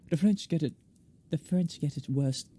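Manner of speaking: French accent slipping into English; attempted French accent. Shown as a demonstration. Narrator tests the shaman's voice, wobbly French accent drifting English. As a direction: aim for French, land nearer English. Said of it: "That's more of an English accent".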